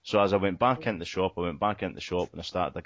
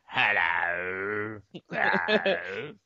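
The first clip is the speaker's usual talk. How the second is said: mock doorstep call; much slower than usual. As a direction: call out hello like a collector. Calling out in collector role.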